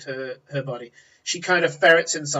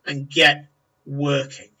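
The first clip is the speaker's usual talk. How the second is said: brusque orders; 5 dB louder than usual. Acted. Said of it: "He goes".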